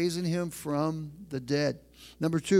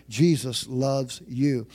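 Jesus loves you, each word slow and weighted; slow emphasis; 3 semitones lower, 3 dB louder, much slower than usual. Acted. Pastor stresses the key line.

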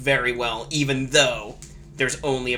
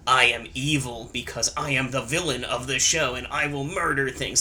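generic villain voice. Retold or imitated. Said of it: "like, generic villain voice".

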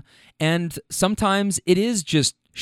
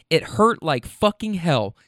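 slow emphatic; slower than usual. Retold or imitated. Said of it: "So that's what I said".

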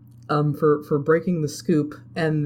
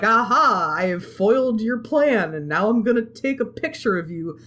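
triumphant hero; 5 semitones higher than usual. Retold or imitated. Acting out foiling the villain's plan.

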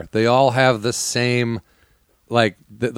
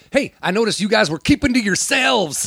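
mock nosy neighbor; 8 semitones higher than usual. Mocking a confrontational neighbor.

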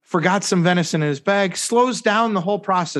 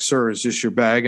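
lower, very serious imitation of security; 4 semitones lower than usual. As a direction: imitate a stern official, pitched down. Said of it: "And very seriously".

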